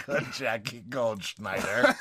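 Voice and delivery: drawn out slowly again, testing the sounds; slow second try at the name; slow careful name. Shown as a demonstration. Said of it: "That's such a hard name to say".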